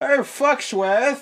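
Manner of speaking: very high, very loud butler-like call. Speaker calls for his butler Foxworth, in the butler's own voice: calling out in Foxworth's voice. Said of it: "I don't know why I did his voice while I was calling".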